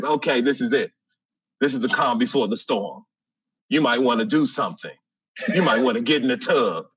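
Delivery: calm lady. Retold or imitated. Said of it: "very calm lady".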